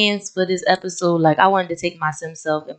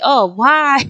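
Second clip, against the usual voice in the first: high, loud mock wail of dismay; dismayed boyfriend; 7 semitones higher, 5 dB louder than usual. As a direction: play the boyfriend crying out at the news. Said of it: "he looking like".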